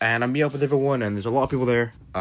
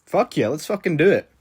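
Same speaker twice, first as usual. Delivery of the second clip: loud, high, fired-up yes; eager agreement; 6 semitones higher, 5 dB louder than usual. Retold or imitated. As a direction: jump at the reckless plan, loudly. Eagerly agrees to a reckless plan.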